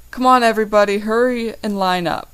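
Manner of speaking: loud call over a crowd; yelling. Acted. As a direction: call out to line everyone up. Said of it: "yells Paul Diamondship".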